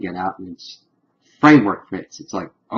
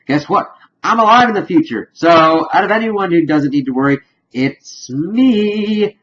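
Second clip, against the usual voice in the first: much higher, fast and louder, smug; cocky excited retelling; 9 semitones higher, 6 dB louder than usual. Retold or imitated. Wounded Mac telling the team he's safe, high cocky boast. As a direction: crow it like you've got nothing to lose. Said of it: "he's going".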